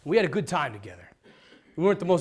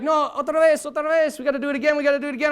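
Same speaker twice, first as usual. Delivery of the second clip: put-on high, loud, pushy child's demand; insistent little girl; 13 semitones higher, 8 dB louder, faster than usual. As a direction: nag like an eager kid. Girl demands another coin flip.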